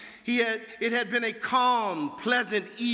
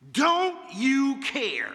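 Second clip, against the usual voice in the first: pleading cry; 4 semitones higher, 3 dB louder, much slower than usual. Acted. Disciples pleading.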